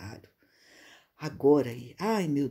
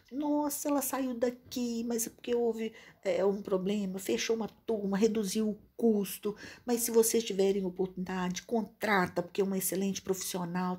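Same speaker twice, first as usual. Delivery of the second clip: enthusiastic praise; 3 semitones higher than usual. Retold or imitated.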